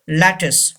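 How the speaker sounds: lattice as "LAT-iss", ending in a short i; lattice, stressed first, closing on "iss"; second T silent. Shown as a demonstration. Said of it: "U gives the sound of E".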